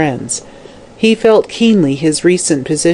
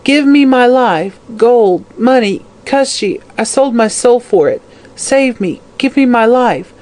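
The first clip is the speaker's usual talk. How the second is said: high, wailing plea; high cries of frantic bargaining; desperate shriek; 6 semitones higher than usual. A narrator's reading. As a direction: wail and beg as a dying hag. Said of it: "she shrieked loudly".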